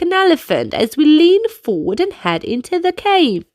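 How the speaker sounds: put-on lively kids' dance leader; upbeat instructions for little dancers; movement coaching. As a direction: lead the children through the moves.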